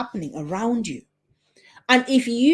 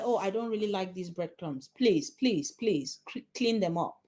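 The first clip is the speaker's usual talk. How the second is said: softer, pleading, not taken seriously; weak pleading; 7 dB quieter than usual. Shown as a demonstration. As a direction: plead meekly with please, please. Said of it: "which one are they going to take seriously".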